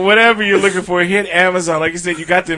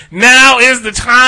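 loud, slow booming call; loud sharp voice; 6 semitones higher, 7 dB louder, slower than usual. Real, not acted. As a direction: shout it out slowly. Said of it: "Why are you screaming?".

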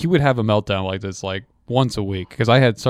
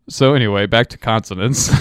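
unbothered teacher; 4 dB louder than usual. Retold or imitated. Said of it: "the teacher goes".

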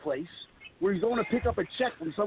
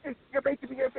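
mocking Howard's whine; 5 semitones higher than usual. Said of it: "and he's yelling at me, going".

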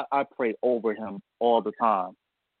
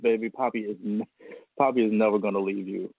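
tender reassurance; 4 semitones lower than usual. Retold or imitated. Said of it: "I said".

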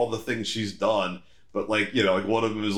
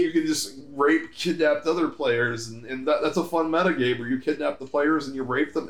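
Zuckerberg robot voice; 3 semitones higher than usual. Retold or imitated. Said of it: "Just talk like a robot".

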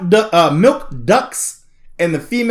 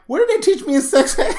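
laughing disbelief; 7 semitones higher than usual. Retold or imitated. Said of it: "And then I was like".

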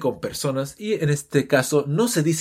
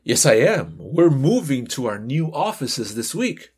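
dialogue character. Acted. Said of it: "voy a hacer esa conversación".

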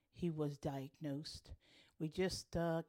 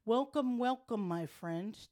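loud, high sing-song greeting; booming sing song welcome; 4 semitones higher, 8 dB louder than usual. Acted. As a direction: belt it out like a show host. Podcast host's opening greeting.

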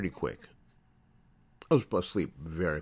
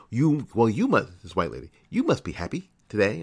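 cheery lady voice; 3 semitones higher, 5 dB louder than usual. Retold or imitated. Retold white lady at the store.

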